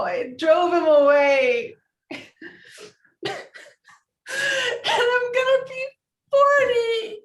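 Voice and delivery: wailing sob, pitch climbing high; crying. Real, not acted. Sally wailing to Harry about turning forty. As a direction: let it break into a wail.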